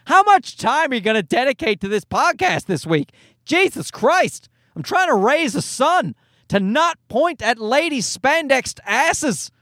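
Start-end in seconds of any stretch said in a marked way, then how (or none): 3.4-4.5 exasperated groan. Real, not acted. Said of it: "exasperated outburst".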